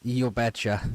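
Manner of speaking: put-on stereotypical Canadian accent, lightly done; a quick jokey Canadian accent. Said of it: "everyone always uses the stereotypical Canadian voice".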